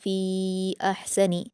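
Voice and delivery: slow, careful Quranic reading; slow recited verse; tajweed recitation. Shown as a demonstration. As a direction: draw the verse out slowly. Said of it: "जल्द पढ़ेंगे".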